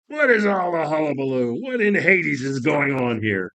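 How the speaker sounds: loud, booming challenge from the lord of the dead; angry demand. Acted. Hades roars at the intruder, angry. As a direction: demand to know what the noise is.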